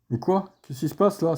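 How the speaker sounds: high baffled cry; confused outburst. Real, not acted. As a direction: sound baffled at the bug. Game bugs unexpectedly.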